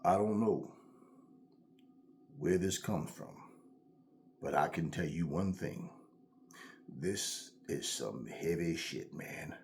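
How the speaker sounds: low, soft, halting movie-hero delivery; seventies movie character. Retold or imitated. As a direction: imitate a grave seventies film lead, with weighty pauses. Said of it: "That's how they talked".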